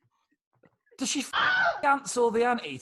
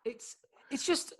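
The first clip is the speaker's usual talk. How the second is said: whisper; 5 semitones higher, 8 dB quieter than usual. Real, not acted. Whispered aside.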